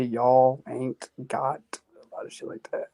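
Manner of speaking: slow Southern drawl; stretched-out Southern twang; Southern accent. Shown as a demonstration. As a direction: demonstrate a lazy Southern y'all. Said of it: "And then you say".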